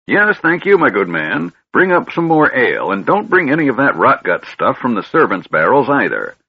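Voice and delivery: put-on high, fussy old man voice; a scatterbrained old mage rambling on; doddering old wizard. Fizban giving orders.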